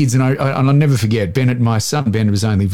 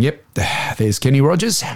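bored. Retold or imitated. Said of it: "I would always just sound bored".

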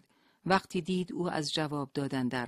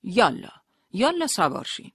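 loud, high, harsh command; rough order; 6 semitones higher, 8 dB louder than usual. A narrator's reading. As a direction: hurry them along roughly. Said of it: "با خشونت گفت". (دستور بلند و خشن)

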